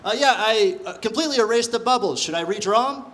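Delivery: put-on mildly worried exam kid; test taker. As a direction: ask sheepishly with halting starts. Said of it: "taking a standardized test".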